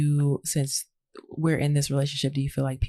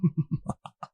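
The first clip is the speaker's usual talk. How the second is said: villain laugh; 3 semitones higher, 3 dB quieter than usual. Real, not acted. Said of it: "That was my, like, villain laugh".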